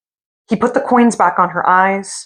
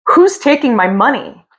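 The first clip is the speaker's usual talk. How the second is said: higher, panicky demand; alarmed call; 5 semitones higher than usual. Acted. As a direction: cry out afraid into the dark. Gravedigger alarmed in bed.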